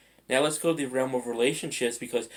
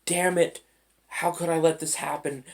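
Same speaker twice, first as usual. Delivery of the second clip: frustrated outburst; 5 semitones higher than usual. Retold or imitated. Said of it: "I could immediately say".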